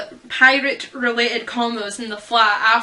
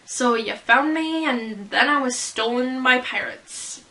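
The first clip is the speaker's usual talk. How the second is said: banter. Acted. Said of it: "Andy comes in with his banter".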